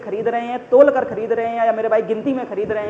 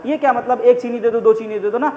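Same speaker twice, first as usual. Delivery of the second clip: mocking wrong way; 3 dB louder than usual. Shown as a demonstration. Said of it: "ये गलत तरीका है मांगने का".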